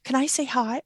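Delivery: quoting her daughter. Retold or imitated. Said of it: "Jessica says".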